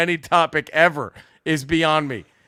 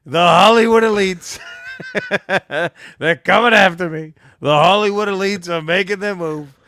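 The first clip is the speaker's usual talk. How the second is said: whining about persecution, a bit louder; mock whiny complaint; 4 dB louder than usual. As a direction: play the self-pitying victim. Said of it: "you complain about".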